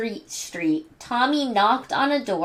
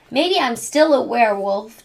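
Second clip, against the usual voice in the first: worried. Acted. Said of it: "Chucky worried".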